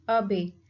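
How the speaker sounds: "abbey" with the first syllable stressed; teacher's demo of "abbey", weight on its opening syllable. Shown as a demonstration. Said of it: "stress is on the first abbey".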